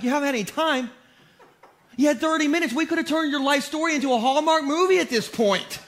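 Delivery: hungry man losing his patience; exasperated retort. Retold or imitated. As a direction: build from disbelief into mock outrage. Exasperated retort to indecisive diner.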